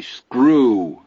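high cackling giggle, shouted; cackling taunt. Acted. Teddy gloating over the card game with a high cackle. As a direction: crow it in a shrill mocking cackle.

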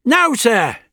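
put-on high, loud stern old man; old doctor voice. A narrator's reading. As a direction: order it calmly like an elder. Doctor commands.

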